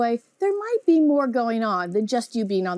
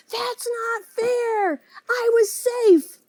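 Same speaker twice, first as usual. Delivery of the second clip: high, slow, whining child in mock tears; whiny protesting kid; 10 semitones higher, much slower than usual. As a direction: wail it like a kid crying over a bad call. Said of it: "start yelling the whole way to the dugout".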